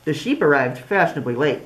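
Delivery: lively storybook voice with big swings; reading to children. Acted. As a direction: read it like story time for little kids. Reads picture book aloud.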